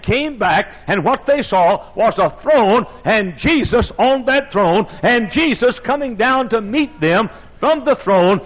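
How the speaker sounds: driving, rhythmic revival preaching. Real, not acted. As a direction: preach it in rolling, repeated cadences.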